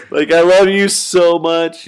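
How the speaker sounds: high, loud, drawn-out declaration; mock tearful gushing. Retelling hugging a friend, mock tearful gushing. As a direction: gush it in an exaggerated wail. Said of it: "I start bawling".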